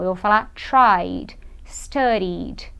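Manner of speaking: tried said as one syllable, studied with a short final d, no extra vowel; teacher modelling the clipped ending; clipped past tense. Shown as a demonstration. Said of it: "Mas eu não vou falar tried".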